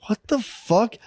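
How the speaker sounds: high, incredulous mock reaction; retold bewilderment. Retold shock at family smoking.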